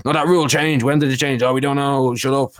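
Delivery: sneering singsong mimicry of evasive officials; mock them as if brushing off every question; mocking USADA. Podcaster mocking USADA's dodgy answers, in a sneering singsong voice.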